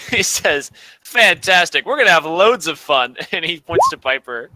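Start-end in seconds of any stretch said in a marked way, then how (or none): 1.0-3.1 lively, punched first word; upbeat praise. Acted. Teacher cheering on the class's answers, upbeat. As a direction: hit FANTASTIC brightly and carry straight on.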